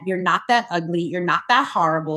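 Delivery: low, measured self pep talk; psyching herself up. Retold or imitated. Actress to the bathroom mirror before the scene, self-coaxing. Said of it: "psyching myself up in the mirror".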